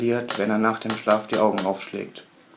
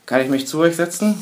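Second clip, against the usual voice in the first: raised voice, pitched higher; calling out; 7 semitones higher, 5 dB louder than usual. Acted. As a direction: call across to them from afar. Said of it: "ruft er von weitem".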